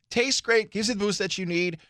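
normal talking voice

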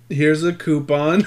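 giggling through the punchline; barely holding back laughter; laughing through it. Real, not acted. Joking about apologizing to Mary, laughing through it.

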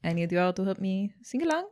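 put-on light Italian accent, coaxing a crowd; playful Italian singer addressing the audience. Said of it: "with my Italian accent".

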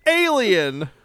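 high, loud dramatic title call; horror trailer voice. Acted. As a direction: boom out the movie title. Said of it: "say the name of the movie".

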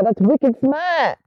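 slow, exaggerated imitation of Boston talk; Boston accent. Southerner mimicking how Bostonians talk, mock Boston accent. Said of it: "you know, you talk like".

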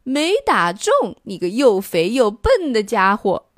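monster jeering at the missed stone; jeering yell. Acted. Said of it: "他一边吼".

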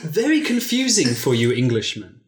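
a hint of a scheming seductress; Helga, sly and mocking. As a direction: tease him with slow scorn. Helga speaks to Byron.

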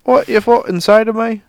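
put-on loud, high drunken yell; bar fight shout. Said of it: "Be like".

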